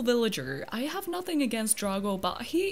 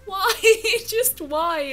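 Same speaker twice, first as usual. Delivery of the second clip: exasperated why; 6 semitones higher, 8 dB louder, slower than usual. Real, not acted. Despairs at kangaroo villager.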